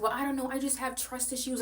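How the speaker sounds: high whiny mock voice; high mocking voice of the host. Voicing the host in argument.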